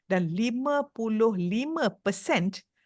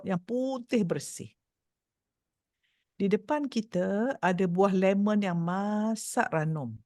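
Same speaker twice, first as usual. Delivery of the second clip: guided visualisation. Shown as a demonstration. Leads eyes-closed imagery exercise.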